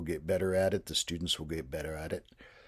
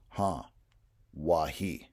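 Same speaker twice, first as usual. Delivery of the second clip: Huh then Wahi said as a reply; reply Huh, Wahi like a student present; student answer; slower than usual. Shown as a demonstration. Student answering roll call in Lakota, plain reply. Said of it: "They're gonna say".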